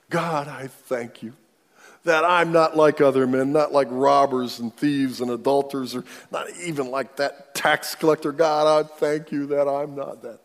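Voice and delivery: loud, boastful voice thanking God he's better; proud Pharisee prayer. Acted. Pharisee boasting to God about the tax collector, loud and smug. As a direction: puff up and proclaim your own goodness. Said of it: "and he prays to God".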